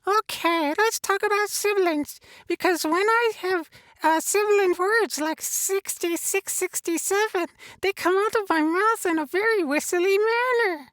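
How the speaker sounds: a lightly voiced cheery Elmo puppet; chirpy puppet character talking to the host. Puppet Elmo chatting with the host, lightly voiced.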